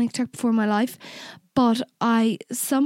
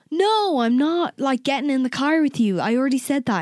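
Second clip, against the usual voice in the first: insistent refusal; 3 semitones higher than usual. Retold or imitated. Retelling her answer to his offer of a lift, insistent.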